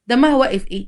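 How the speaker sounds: mildly indignant echo question on دمها واقف; objecting echo. Acted. Wife defending her friend to husband, objecting echo of دمها واقف. Wife throws his words back.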